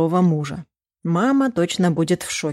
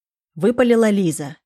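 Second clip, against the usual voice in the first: ordinary delivery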